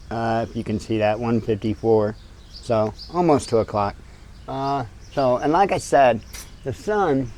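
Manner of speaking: mic pressed against skin; muffled audio, mic covered. Real, not acted. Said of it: "sorry for the audio being muffled".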